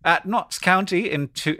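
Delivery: put-on British newsreader accent; mock BBC presenter, English accent. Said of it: "this is like B B C voice".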